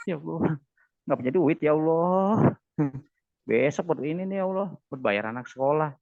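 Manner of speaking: loud, offhand prayer without real feeling; insincere prayer. Shown as a demonstration. Preacher mocks a half-hearted believer asking for school fees, loud and careless. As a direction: rattle off the request, heart not in it. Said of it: "Tapi nggak, nggak sungguh-sungguh".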